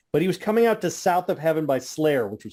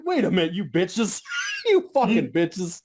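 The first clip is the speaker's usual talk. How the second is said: laughing outrage; 4 semitones higher than usual. Retold or imitated. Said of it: "I'm like".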